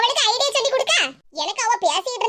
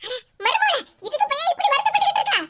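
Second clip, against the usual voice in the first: high, quick, sugary put-on pity; fake sympathy; 6 semitones higher than usual. Mother-in-law feigning pity for weeping daughter-in-law, high and quick. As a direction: act sorry for her to fool her. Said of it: "எப்படி என் நடிப்பு?".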